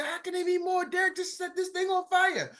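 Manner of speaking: high, quiet, put-on voice for the crowd; mock audience voice. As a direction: squeak out the crowd's eager question. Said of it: "You say".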